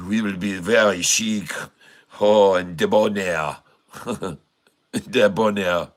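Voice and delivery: playful mock Norwegian accent, debonair; mock Norwegian accent, rolled and chic. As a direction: ham up a Scandinavian accent. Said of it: "talk like this... someone from maybe, uh, you know, the Norway".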